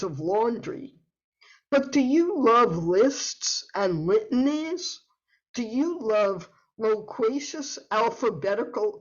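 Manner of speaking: playful, savoring poem reading; alliterative verse. Acted. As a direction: relish every L word. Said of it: "I am going to read an alliterative poem".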